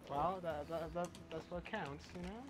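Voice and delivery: usual speaking voice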